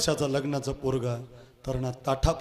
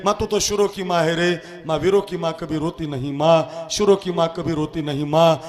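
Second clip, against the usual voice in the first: high, loud plea to his mother; pleading son; 3 semitones higher, 7 dB louder than usual. Acted. Bhagat Singh begging his mother not to cry, loud. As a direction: beg her not to cry, at full voice.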